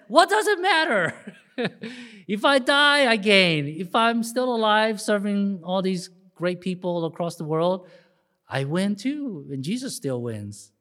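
high, loud and laughing, growing calmer; Saint Paul, excited. Retold or imitated. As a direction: proclaim it gleefully, like the apostle. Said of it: "'cause that sounds like Saint Paul".

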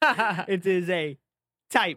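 "type" said slow and set apart; mock quoting the word "type"; air quotes on type. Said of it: "The air quotes".

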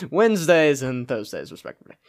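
mock formal. Shown as a demonstration. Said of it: "who talks like that?".

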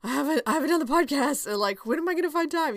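half-joking overwhelmed rush; panicked inner voice. Retold or imitated. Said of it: "there are some weeks where I'm just like".

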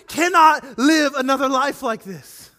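loud slow anguished cry in the car; despairing outburst. Retold or imitated. Alone in the car after church, despairing shout. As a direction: let the despair burst out. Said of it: "we're like".

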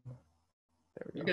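slow, garbled call audio; words dragging through a bad connection; laggy video call. Real, not acted. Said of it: "Sorry, I was lagging".

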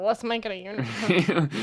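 attempted Scottish. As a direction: put on a shaky stab at Scottish. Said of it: "Was that Scottish?".

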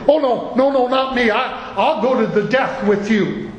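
Peter's earnest protest. Retold or imitated. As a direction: insist you'd never fall away.

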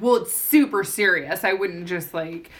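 lightly condescending, leaning on the key words; mock condescending. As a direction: imitate someone condescendingly insisting. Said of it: "he was being super condescending".

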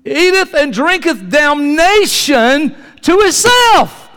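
high, loud, slow weight on "damnation"; stressed scripture. Acted. Pastor makes the congregation hear the warning, stressed. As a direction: hammer "damnation" slowly and high. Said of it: "listen, listen".

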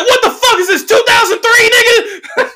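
high, loud over-the-top outburst; Coon Lyle voice. Retold or imitated. Comic yelling at bar stranger, hammed-up shouting voice. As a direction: blurt it like a hammed-up old-school character. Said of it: "Coon Lyle kicked in".

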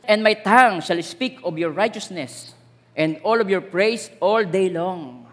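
slow, solemn reading of a psalm; scripture reading. Acted. Preacher reading a psalm to the congregation, solemn. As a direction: read the verse as a prayer. Reads verse slowly.

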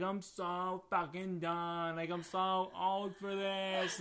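slow, drawn-out worn-out whine; weary Sierra. Retold or imitated. Sierra fed up with the night, slow weary whine. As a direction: drag it out, fed up. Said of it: "Sierra was like".

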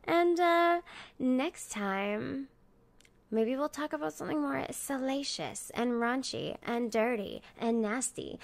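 talking while chewing gum. Real, not acted. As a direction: chew gum through the outro. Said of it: "reckless gum chewing".

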